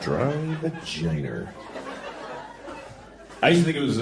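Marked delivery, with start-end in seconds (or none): 0.0-1.5 soft, slow Boston "vagina", ending like "vaginer"; slow, hushed Boston pronunciation; Boston accent. Shown as a demonstration. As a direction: draw out "Dry vagina" quietly in Boston accent. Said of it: "people call it the Boston accent".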